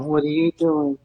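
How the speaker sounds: high, puzzled audience member; mock audience voice. Imitating the staring audience asking the host, high and puzzled. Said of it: "Everyone's staring at you going".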